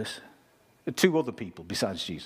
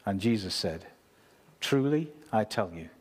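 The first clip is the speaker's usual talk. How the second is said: solemn scripture reading voice. Acted. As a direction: read the passage with weight. Reads scripture passage aloud.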